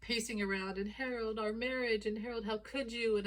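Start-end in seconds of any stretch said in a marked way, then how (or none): 0.9-2.0 mildly raised, acted distress; lightly hammed-up despair; panicking wife. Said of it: "like, panicking". 2.2-3.2 mildly raised, acted distress; a touch of mock panic; panicking wife. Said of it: "like, panicking".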